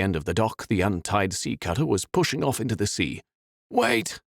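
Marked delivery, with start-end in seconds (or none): 3.7-4.2 high cry after a departing boat. A narrator's reading. Peter crying out to the boat pulling away, high cry. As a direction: call out desperately. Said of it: "Peter cried out".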